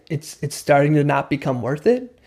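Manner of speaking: mirror it back calmly, lifting gently at the end. Shown as a demonstration. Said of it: "in a calm way".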